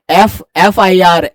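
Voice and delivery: एफ said slowly, opening on a clear "e" vowel; letter-name pronunciation. Shown as a demonstration. Teacher showing students the vowel that opens एफ, letter-name pronunciation. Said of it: "एफ ऐसे पढ़ते हैं".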